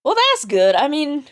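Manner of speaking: lightly Southern character voice; Southern accent. Acted. Reacting to Captain's news of the attack, Southern accent. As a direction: let a Southern lilt creep in. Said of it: "I don't know why she's becoming Southern".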